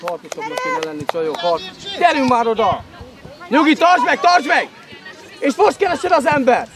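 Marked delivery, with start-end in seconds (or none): 2.0-6.7 raised, louder coaching shout; urgent sideline call. Real, not acted. Coach to players mid-play, urgent calling out. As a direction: call out firmly to players on the pitch.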